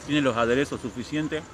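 chewing while talking; mouth full. Real, not acted. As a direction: talk through a mouthful. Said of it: "no se habla con la boca llena".

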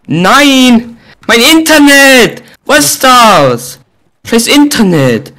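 frustrated yelling. Real, not acted. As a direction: rage at the lag. Lag ruins his game.

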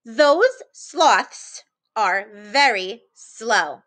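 very slow, careful read-aloud. Shown as a demonstration. Teacher reads the next sentence aloud slowly for children. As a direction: read each word slowly for the kids. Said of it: "skip down to the next sentence".

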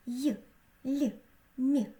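"Й, Л, М" as palatalized, soft sounds; soft consonants. Shown as a demonstration. Teacher shows the soft sounds the smiley makes, palatalized "Й, Л, М". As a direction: say "Й, Л, М" softened, one sound at a time. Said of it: "вимовляючи м'які звуки".

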